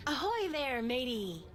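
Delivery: hearty sailor's hail, Ahoy there; pirate greeting. Acted. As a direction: call out like an old sea dog.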